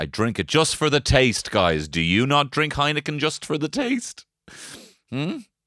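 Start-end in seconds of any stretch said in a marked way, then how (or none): 0.0-4.2 very high, loud, swaggering show-off boast. Retelling arriving at a friend's house with a Heineken Zero: imitating own show-off past self. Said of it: "and I was like".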